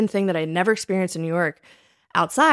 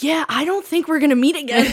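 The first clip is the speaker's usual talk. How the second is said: breezy brush-off; 7 semitones higher, 4 dB louder than usual. Retold or imitated. Brushing off an aggressive date.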